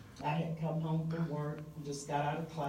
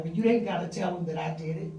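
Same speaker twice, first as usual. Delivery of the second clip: pleading, excited; 3 semitones higher, 5 dB louder than usual. Retold or imitated. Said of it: "he's like".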